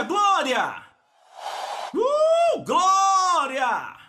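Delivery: high, loud shouted glória; Abraham's shout. Retold or imitated. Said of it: "Ele dizia".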